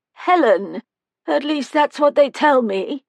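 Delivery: put-on a tiny old woman calling from the doorway; high-pitched old woman. A narrator's reading.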